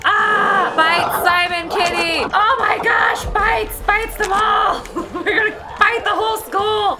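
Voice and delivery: high, wild and giddy; gleeful zombie shouting. Acted. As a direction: shout it with manic glee. Zombie rampage, shouting, laughing.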